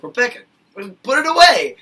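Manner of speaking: high, loud panicked yell; mock yell. Fan yelling at Rebecca on screen, panicked yell. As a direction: yell it like a frantic viewer.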